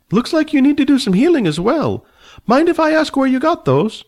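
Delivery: put-on high, fussy old man, haughty and annoyed. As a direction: play the prickly old dragon rider, voice pitched high. Old man asks about wounds.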